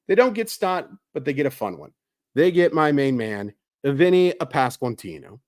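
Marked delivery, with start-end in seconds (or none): 3.8-5.4 "Vinny Pasquantino" rolled out slowly in a playful Italian accent. Shown as a demonstration. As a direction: savor "Vinny Pasquantino" in a hammed-up Italian accent, drawing out each syllable. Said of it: "you just have to say it with the accent".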